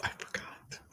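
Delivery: sheepish whispered admission; a barely voiced I forgot. Real, not acted. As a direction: breathe it out, caught blanking on the name. Blanking on retreat name mid-announcement.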